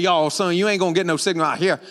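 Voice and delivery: lightly voiced Cajun local; a hint of Louisiana country talk; old Cajun man. Cajun local answering a lost rider, lightly imitated old Cajun. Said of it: "The old Cajun man laughed at me".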